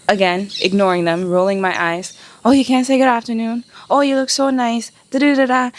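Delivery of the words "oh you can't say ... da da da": higher, fast sneering catcall; imitating a pushy officer, lightly voiced; a hint of a leering policeman; mock catcalling officer.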